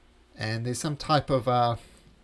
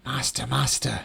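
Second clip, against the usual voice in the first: cowering servant voice; 4 dB louder than usual. Acted.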